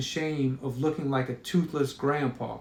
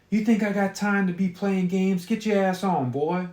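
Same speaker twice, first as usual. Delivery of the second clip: sharp, higher scolding mother; scolding mom; 4 semitones higher than usual. Acted. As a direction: tell the boy off angrily. Mother scolding caught shoplifter.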